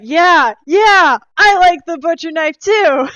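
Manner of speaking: high, shouted salesman enthusiasm; explosive, hammed-up excitement; imitating a loud pitch. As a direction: yell it like a hype man. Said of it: "and it's like".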